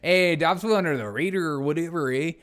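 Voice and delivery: playing up a New Mexican accent; mock New Mexican lilt with a tag-on "eh". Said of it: "my New Mexican accent".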